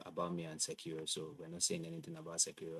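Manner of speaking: audio cutting out, dropping away; glitchy breaking-up mic; corrupted glitchy audio. Real, not acted. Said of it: "your audio is cutting out".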